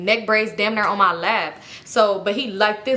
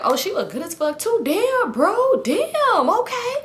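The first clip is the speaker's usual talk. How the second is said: high, exaggerated imitation of a guy drooling over a girl; mocking a thirsty guy; 10 semitones higher, slower than usual. Teller mocking the boy in the car, high hammed-up voice. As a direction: ham up his damn bro reaction, pitched way up.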